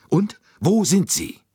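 impatient friend demanding where the clues are; eager. A narrator's reading. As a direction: press him eagerly for the answer. Eager friend pressing for answer.

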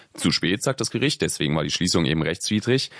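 ordinary delivery

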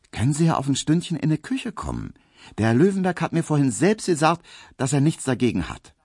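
Pauline, coy and chatty; voiced maid Pauline, coy. A narrator's reading.

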